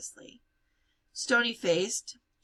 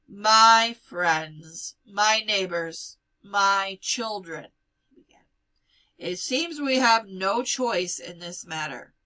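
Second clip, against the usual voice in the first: formal address; 8 dB louder than usual. Acted. Rabbi addressing the gathering.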